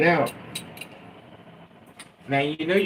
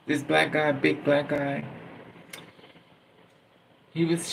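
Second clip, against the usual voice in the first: ordinary talk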